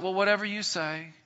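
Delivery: a pushover yielding with no fight; meek giving in. Acted. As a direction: shrug it off and give up the argument. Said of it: "we're just like".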